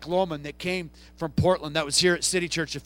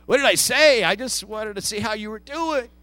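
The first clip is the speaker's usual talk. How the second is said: louder, taken-aback "whoa"s, then easing down; startled backing off; 3 semitones higher, 5 dB louder, much slower than usual. Retold or imitated. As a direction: back off like you've been snapped at.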